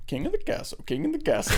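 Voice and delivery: high, light catchphrase imitation; Borat. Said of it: "I was really excited for Borat".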